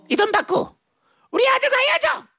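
high, commanding ultimatum; melodrama mother. Acted. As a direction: order her away like a soap-opera mother. Acted mother's ultimatum with money.

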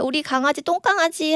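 put-on high, sweet baby talk to a daughter; doting dad. Dad cooing to his youngest daughter, sweet baby talk. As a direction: coo like a doting father. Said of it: "저희 아빠가 사실 저를 되게 이렇게 막 정말".

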